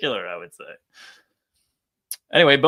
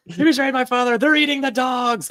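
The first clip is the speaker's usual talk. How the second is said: higher, hammed-up political ranting; mock rant; 10 semitones higher than usual. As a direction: parody a raving accuser. Mocking Luke's rant as politics.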